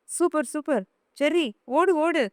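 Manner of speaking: high-pitched cheering at the screen; excited cheering. Acted. Girl cheering Jerry on while watching cartoons, excited. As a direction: egg Jerry on like a thrilled kid.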